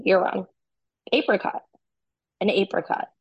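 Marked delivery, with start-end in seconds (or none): 1.1-1.6 "Apricot" said AY-pri-cot, higher pitched; long-A pronunciation. Shown as a demonstration. Host corrects co-host's word, long-A apricot. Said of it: "No, that's wrong". 2.4-3.1 "apricot" said AY-pri-cot; long-A pronunciation. Shown as a demonstration. Host insists on their version, long-A apricot. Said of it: "No, that's wrong".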